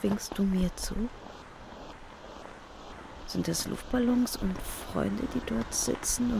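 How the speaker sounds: hushed, breathless whisper. Acted. Speaker seeing Bernhard at the bookcase, whispering. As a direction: barely breathe the words out. Unsure it's Bernhard waving.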